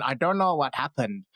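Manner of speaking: put-on faint Indian-tinged accent; lightly put-on Indian accent; accidental Indian accent. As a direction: quote him in a slight Indian accent. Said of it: "I don't know why I sound Indian".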